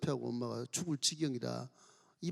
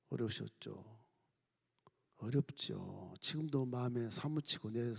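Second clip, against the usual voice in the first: gentle sympathy; 4 semitones lower, 4 dB quieter than usual. Acted. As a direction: console her quietly. Teacher consoling bereaved mother.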